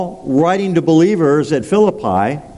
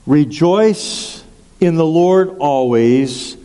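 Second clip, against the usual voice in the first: scripture reading; slower than usual. Shown as a demonstration. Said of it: "And it says".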